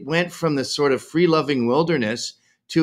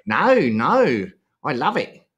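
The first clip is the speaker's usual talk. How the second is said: put-on a botched South African accent that slides into Australian; South African accent attempt; slower than usual. Guest mimicking a South African who loves home, botched South African accent. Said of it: "I got the accent wrong".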